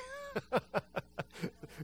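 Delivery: high, breathy burst of laughter; real laugh. Real, not acted. Pastor laughing at the brothers' excuse, real laugh.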